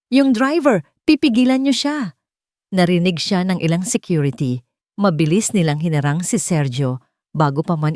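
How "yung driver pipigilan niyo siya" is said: high, louder command to stop him; urgent shout to guards. A narrator's reading. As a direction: yell across the hall at the guards. Calling guards to stop driver. (sigaw sa mga guwardiya)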